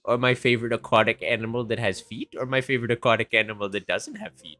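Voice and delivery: a grandma listing categories; old lady voice. Acted. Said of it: "the old lady kinda looks back at you and goes".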